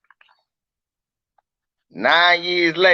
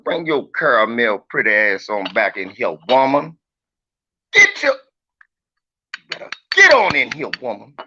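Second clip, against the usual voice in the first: hammed-up commanding call to woman; mock forceful call; 3 semitones lower than usual. Streamer bossing a woman in chat, mock command. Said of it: "She like it when I talk to her like that".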